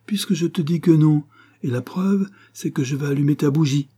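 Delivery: high, honeyed reassurance; sugary, insistent coaxing; honeyed, caressing. A narrator's reading. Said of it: "toujours mielleux et caressant".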